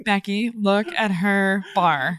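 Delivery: put-on slow, catty Valley Girl. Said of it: "Valley Girl voice".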